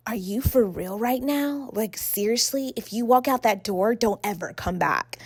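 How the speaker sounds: mock pissed off. Date threatens her as she gets up to leave, mock pissed off. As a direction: imitate a quietly outraged date. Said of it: "He was pissed".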